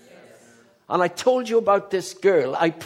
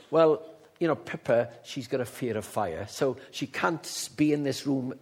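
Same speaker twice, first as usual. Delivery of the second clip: gentle mother; 4 semitones lower than usual. Retold or imitated. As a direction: gently voice a mother confiding about her child. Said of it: "the mother said very gently".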